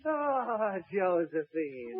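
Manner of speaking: slow, soft sigh of her name; tender greeting. Acted. Napoleon greeting his wife Josephine, softly swooning. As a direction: breathe the name out slowly and softly.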